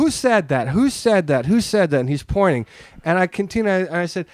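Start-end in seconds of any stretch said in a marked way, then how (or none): 0.0-2.0 higher-pitched, repeated mock demand; insistent retold challenge; retold demand for culprit. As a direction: imitate a rattled comic hunting a heckler. Comedian searches audience for heckler.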